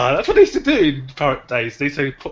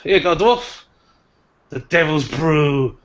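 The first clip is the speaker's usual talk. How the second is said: barmaid serving; 3 semitones higher than usual. Acted. Barmaid hands the dwarf his drink, showily. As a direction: present the drink with a showy flourish. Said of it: "She says to you".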